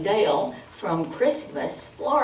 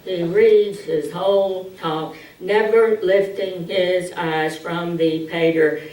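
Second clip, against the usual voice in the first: droning monotone read; Reading Ron's monotone drone; monotone reader. Shown as a demonstration. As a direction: read it on one note, no lift. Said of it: "in a monotone".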